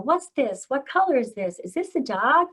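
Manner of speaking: parent's sing-song quizzing. Acted. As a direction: quiz a small child, tune lifting. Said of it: "we as parents tend to ask".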